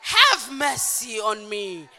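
high, full shout, falling on the plea. Acted. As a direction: shout out loud, stretch out the last plea. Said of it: "you will shout the louder".

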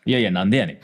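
laughing tsukkomi retort "なんでやねん", punchy fall on で; playful Kansai retort "なんでやねん" with a laugh; mock tsukkomi. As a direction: snap back at the partner's silly exit with a laugh. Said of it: "なんでやねんいただきました".

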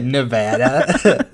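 Nevada? said slowly with a laughing rise; drawn-out Nevada? with a laugh; mock pronunciation.

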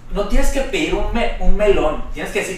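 bastante más agudo, corrigiendo; imitando a la chava. Retold or imitated. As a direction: corrige con insistencia aguda. (imitación aguda de la chava corrigiendo)

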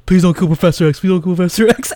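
imitating a fan begging under his breath, audibly; lightly mimicked nervous self-talk; anxious moviegoer pleading. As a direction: plead to yourself, a bit too loudly. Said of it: "he kinda talked loudly, but he's talking to himself".

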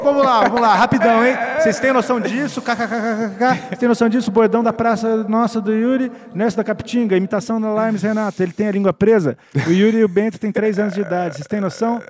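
loud, high, hammy outburst; hammed-up shouting. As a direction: ham it up at full volume. Mock horror, loud hammed reading.

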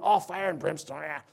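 dry, mocking brush-off of the phrase; mock fire and brimstone as a cliché; sarcastic dismissal. Shown as a demonstration. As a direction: sneer it like it's a joke. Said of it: "He wants us to have an attitude of".

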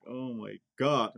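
slow, drawn-out exasperated groan of words; a drill trainee fed up with whiners, slowly exasperated. Retold or imitated. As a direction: roll your eyes through it, slowly. Exasperated reaction to whining.

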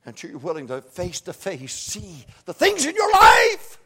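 shouted, high-pitched preacher's cry; fiery revival preaching; full-force preaching. Acted. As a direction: bring it up to a roaring pulpit shout.

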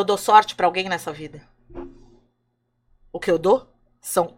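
a hint of a wise, stern god scolding; stern Creator. O Criador responde ao moço. (o Criador, voz um pouco mais grave e pausada)

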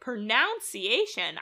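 "Pronunciation" said slowly as pro-NOUN-ciation; "Pronunciation" mispronounced with an ow in the second syllable; butchered pronunciation. Real, not acted. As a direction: stretch out "Pronunciation" with noun in the middle. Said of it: "I butchered the pronunciation of pronunciation".

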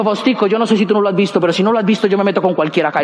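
low-pitched imitated companion; Marta. Companion telling Faustico she will join anyone, low imitated warning. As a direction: confide it as a half-teasing warning.

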